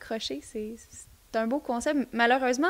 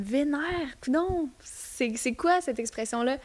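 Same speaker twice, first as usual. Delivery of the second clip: higher, drawn-out puzzled self-quote; perplexe; 3 semitones higher, slower than usual. Retold or imitated. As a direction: act out being baffled by a strange word. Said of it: "j'étais comme". (perplexité rejouée, voix plus aiguë)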